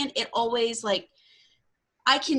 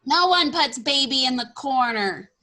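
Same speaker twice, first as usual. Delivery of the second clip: quoting the famous line with a bit more push; movie quote; 2 semitones higher, 5 dB louder than usual. Pretend. Friend echoes the Dirty Dancing line back, louder. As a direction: deliver the line like the film, a touch louder.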